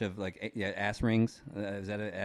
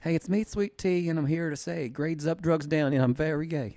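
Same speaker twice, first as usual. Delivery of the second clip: sassy Southern gay voice; 4 semitones higher, 3 dB louder than usual. Pretend. Introducing himself as the character Sweet Tea, sassy Southern voice. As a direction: sell it like a sassy Southern rapper. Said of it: "sassy Southern gay voice".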